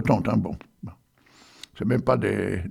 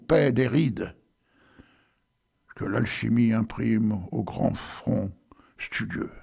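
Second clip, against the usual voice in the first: slow, deliberate reading of verse; solemn poetry recitation; poem recital; slower than usual. Acted. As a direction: recite Rimbaud slowly, savouring each image. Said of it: "Alors, j'y vais, attention".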